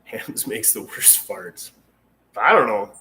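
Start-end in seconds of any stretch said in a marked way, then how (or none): 0.1-1.7 laughing. Real, not acted. Laughing while reading a comment.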